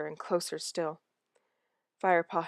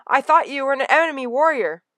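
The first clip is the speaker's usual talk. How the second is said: put-on young cat explaining; 8 semitones higher, 8 dB louder than usual. Firepaw explaining to friend.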